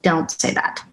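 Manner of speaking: urgent whispered correction; whispered warning from the handler over the earpiece. Acted. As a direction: hiss it under your breath so no one hears.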